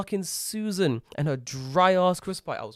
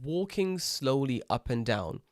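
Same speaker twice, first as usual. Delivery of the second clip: slow and deliberate; 3 dB quieter, slower than usual. Shown as a demonstration. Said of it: "let me set the correct scene".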